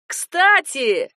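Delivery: called out loud and high from afar; shouting. Acted. Cousin shouts to her from the stairs. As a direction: call it down the stairs. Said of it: "закричал он с лестницы".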